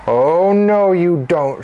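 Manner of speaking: drawn-out warning, starting high; defiant mother. Acted. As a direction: stand up to him firmly. Mother blocks the fat man.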